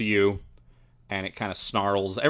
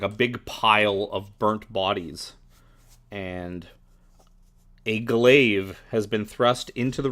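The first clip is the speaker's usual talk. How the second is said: measured, deliberate game master's narration; scene-setting narration; 4 dB louder, slower than usual. Acted. Game master describes a grim discovery to the players, measured narration. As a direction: read the scene out with weighted key words.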